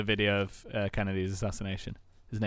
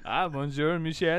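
welcoming mock-French greeting; French accent; 5 semitones higher than usual. Greeting an old friend, in French accent. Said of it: "when Will does the French accent".

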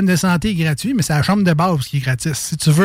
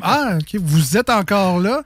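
surprised nurse; 3 semitones higher, slower than usual. Retold or imitated. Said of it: "ça ressemblait un peu à ça".

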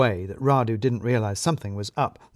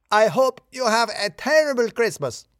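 much higher, spiteful yell over his shoulder; parting shout; 11 semitones higher, 4 dB louder than usual. A narrator's reading. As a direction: fling a last curse. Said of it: "to shout back".

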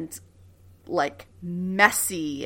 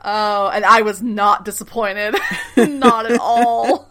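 laughing gush; 2 semitones higher, 8 dB louder, slower than usual. Real, not acted. Gushing about the episode.

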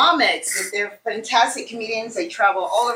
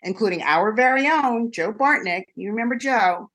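campy drag queen. Acted. Campy Halloween host greeting.

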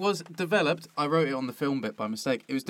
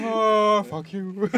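mock outburst; 6 semitones higher, 6 dB louder, much slower than usual. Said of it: "It's just like".

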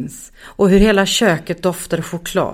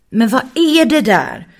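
questioning; 6 semitones higher, 4 dB louder than usual. Acted. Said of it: "fortsatte Raga frågande".

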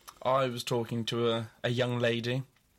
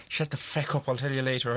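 put-on Irish accent. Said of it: "go back into my Irish accent".

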